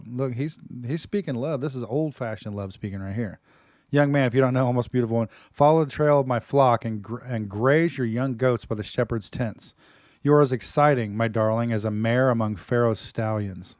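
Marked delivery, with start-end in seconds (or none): 3.9-13.8 dramatic reading. Acted. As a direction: declaim it like a lover's poem. Reads love poem dramatically.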